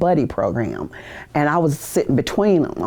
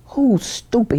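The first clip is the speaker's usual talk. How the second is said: higher, mock drill-instructor demand; retold loud question; 8 semitones higher, slower than usual. Drill instructor yelling at a recruit in his face, mock loud. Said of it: "He said it real loud".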